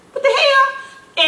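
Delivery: very high, slow drawn-out astonishment; disbelief. Retold or imitated. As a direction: stretch it out, floored and laughing. Mom recalling seeing his afro.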